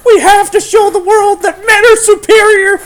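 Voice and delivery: high, loud kid's attempt at a growl; failed growly voice. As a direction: yell it like a boy faking a tough growl. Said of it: "he tries to make a growly voice".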